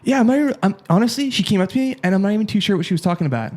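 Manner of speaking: "about" tossed off quickly at the end; fast in a sentence. Shown as a demonstration. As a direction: rattle toward a clipped Canadian "about". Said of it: "so I'll say it fast".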